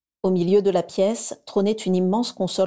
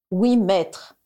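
dictating; 3 dB louder than usual. Acted. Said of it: "dicta Voldemort".

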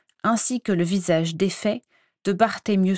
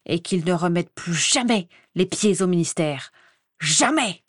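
barely contained anger. Acted. Croupton dictates the sackings to his assistant, building rage. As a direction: spit out each name of the dismissed. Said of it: "avec une colère à peine contenue".

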